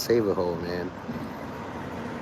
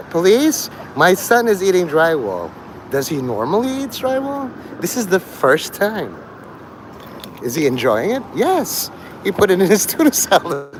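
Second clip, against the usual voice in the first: higher, excited call to the police; mock frantic mom; 4 semitones higher than usual. A mom phoning police about her son, hammed-up. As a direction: play the panicked mother calling police.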